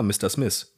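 Mister Smith with no English R, ending in a German "a"; Germanised English. Shown as a demonstration. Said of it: "das ist ja auch eingedeutscht".

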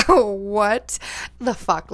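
slow, stunned disbelief; utter shock. Retold or imitated. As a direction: draw it out in retold shock. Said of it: "in utter shock".

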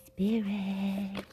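slow, hushed mystic reading voice; slow mystical whisper to the spirit; tarot voice. Pretend. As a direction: summon the spirit like a psychic. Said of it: "gotta get my tarot voice on".

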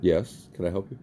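talking around a chewy drink; chewing while talking. Real, not acted. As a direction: mouth full of boba. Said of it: "Sorry, I was chewing my drink".

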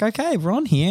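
retold hyped team talk. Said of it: "We were like".

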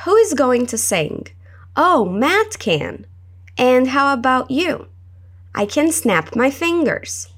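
1 reading both parts in another voice. Shown as a demonstration. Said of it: "com uma outra entonação e uma outra voz".

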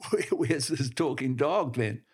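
lightly scoffing question; sarcastic. Acted. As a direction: businessman sneering at the farmer, mildly sarcastic. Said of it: "he asked sarcastically".

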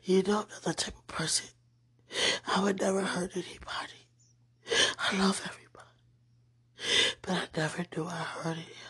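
hushed, tearful prayer whisper. Real, not acted. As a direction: confess to God in a whisper.

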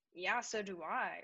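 slow, drawn-out retelling of the text; slow drawn read. Retold or imitated. Izzy rereading Caitlin's reply slowly. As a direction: stretch it out slowly. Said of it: "And I was like".

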